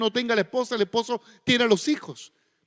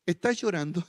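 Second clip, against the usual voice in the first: soft, lower, half-laughing mock question; clumsy husband; 4 semitones lower, 5 dB quieter than usual. Clumsy husband sees his wife cry, softly mocked. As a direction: awkwardly ask if she's crying. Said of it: "vemos a nuestra esposa llorar y decimos".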